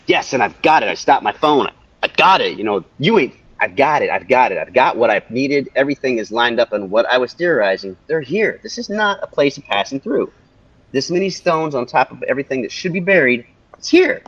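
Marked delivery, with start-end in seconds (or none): 0.1-6.7 louder, excited retold cheer; reliving the thrill of getting it on the recording; retold excitement. Telling how he celebrated, louder and thrilled. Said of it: "I'm like". 8.1-14.2 excited. Real, not acted. Theory confirmed, rising excitement.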